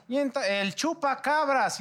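slow, drawn-out dramatic TV announcer; imitating TV host. Recalling the chupacabras TV show to friends, slow mock announcer. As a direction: stretch it out like a sensational TV host. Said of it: "Cuando estaba ahí que Jacobo".

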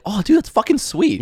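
high, excited bro voice. Retold or imitated. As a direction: gush like a hyped-up bro. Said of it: "he would be like".

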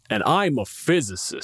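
said as a haughty put-down; And I'm a physicist said with a dismissive, superior edge; smug dismissive. Shown as a demonstration. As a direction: make it sound like a cold brag. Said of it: "they hear it as".

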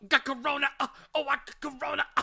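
high, loud mocking whine; mock whiny voice. Friend mocks rapper catching corona, high whine. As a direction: squeal it like a scared rapper.

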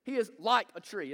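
like in He is like a tree hit again at normal level; stress on like. Shown as a demonstration. Pastor repeating the stress on like. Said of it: "emphasize a different word every time".

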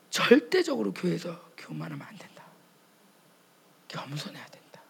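hushed recitation of strict rules; a hushed, self-policing murmur; rule-bound whisper. Retold or imitated. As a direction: whisper the rules like a scrupulous believer.

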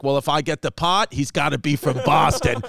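lightly imitated Boston accent; Boston comic stating his terms; a hint of stubborn Boston talk; Lenny Clark. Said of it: "He's like".

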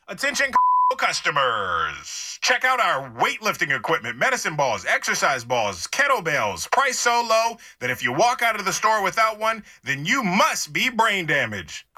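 lightly voiced store PA announcer; store loudspeaker announcer. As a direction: read it like an in-store ad.

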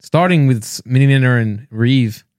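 Rory McIlroy style Northern Irish accent. Shown as a demonstration. Showing off to podcast mates, Northern Irish accent. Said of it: "I'm good at the accent".

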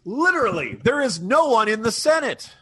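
hammed-up senator overstating with literally; imitating Biden. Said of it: "you know, like".

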